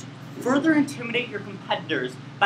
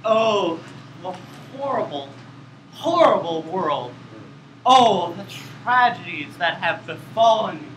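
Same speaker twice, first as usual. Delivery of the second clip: put-on sway through the woe like a drunk; drunken lament; 5 semitones lower than usual. Shown as a demonstration. Same lament redone as a drunken character, slurred. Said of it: "use of a drunken character".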